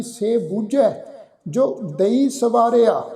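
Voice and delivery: careful, measured Gurbani recitation, ਦਈ said clearly; slow scripture recitation. Shown as a demonstration. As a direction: recite it slowly and carefully, like teaching the verse. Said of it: "ਫਿਰ ਅਸੀਂ ਅੱਠਵੀਂ ਜਗ੍ਹਾ ਪਾਠ ਉਚਾਰਨ ਕਰਦੇ ਹਾਂ ਜੀ". (ਹੌਲੀ ਤੇ ਸਾਫ਼ ਗੁਰਬਾਣੀ ਪਾਠ)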